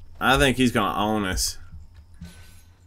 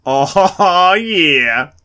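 laughing; 10 semitones higher, 11 dB louder than usual. Real, not acted. Reacting to a big moment.

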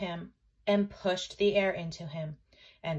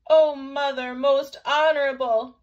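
put-on loud, high, panting child; panted cry; 5 semitones higher, 10 dB louder than usual. A narrator's reading. Chang calling to mother after running, panted cry. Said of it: "he panted".

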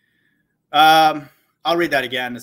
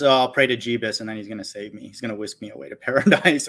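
mocking naive prayer; 3 semitones lower than usual. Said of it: "It's not just".

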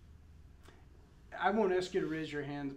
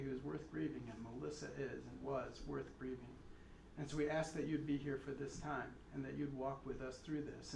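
public prayer. Real, not acted. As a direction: lead mourners gently in prayer. Leads a prayer.

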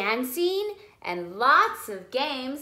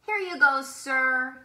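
shop assistant; 5 dB louder than usual. Acted. Shop assistant voiced in story.

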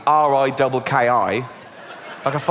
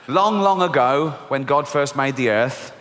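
storybook reading; 3 semitones lower than usual. Acted. Reading a children's Bible story.

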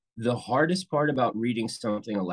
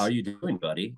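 embodying the character. Shown as a demonstration. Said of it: "when you embody the other person".

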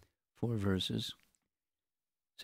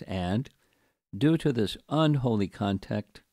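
deliberate scripture commentary reading; 4 dB louder than usual. Acted. Teacher reading the purport to patient listeners, deliberate reading. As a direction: read it out, pausing after each phrase.

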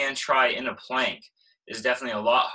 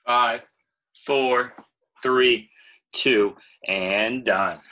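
loud countdown; 6 dB louder, much slower than usual. Real, not acted. Calling out countdown.

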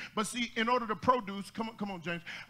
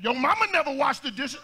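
wife's retort; 4 semitones higher, 5 dB louder than usual. Retold or imitated. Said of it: "She said".

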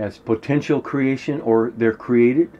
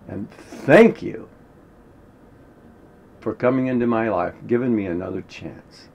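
loving gratitude; 3 dB louder than usual. Shown as a demonstration. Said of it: "But, but you do it like this".

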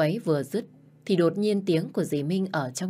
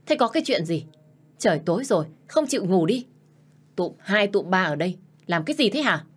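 annoyed scolding; 2 semitones higher than usual. Acted. Stepmother scolds the servants awake late, irritated. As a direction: scold them for gathering at night. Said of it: "bực mình nói".

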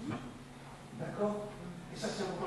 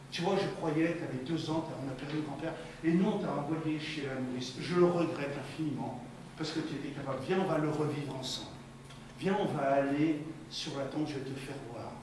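lower, sincere parent voice; gentle parent; 3 semitones lower than usual. Acted. Parent to child about the grandfather's death, gently regretful. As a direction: explain it tenderly, in a lowered voice.

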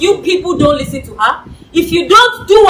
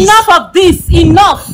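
angry shout; 4 semitones higher, 5 dB louder than usual. Acted. Boss stops the quarrel.

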